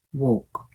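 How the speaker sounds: "walk" rounded to woke, the wrong O. Shown as a demonstration. Teacher shows the wrong vowel for contrast.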